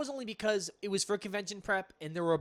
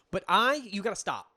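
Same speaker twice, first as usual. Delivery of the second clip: louder, exasperated mock protest; mock anger; 3 semitones higher, 5 dB louder than usual. Real, not acted. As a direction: complain in play-angry outrage. Friend teasing him about zombies.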